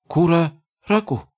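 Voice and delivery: high goblin gibberish, steadier; a goblin regaining his nerve. Acted. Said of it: "Его голос был более уверенным".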